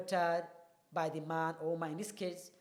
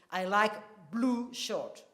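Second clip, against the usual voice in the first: slow, blue emphasised; stress on blue; slower than usual. Shown as a demonstration. Teacher modelling the stressed word, slow. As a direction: set blue apart and stress it. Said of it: "to indicate that blue is the emphatically stressed word".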